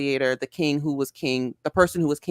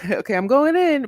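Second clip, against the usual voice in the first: laughing; 10 semitones higher, 4 dB louder than usual. Real, not acted. Laughing while jumping back in.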